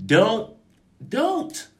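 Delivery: squeaky high don't, rising; high mocking refusal. Real, not acted. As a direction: shoo them away with a high squeal. Warding off well-wishers.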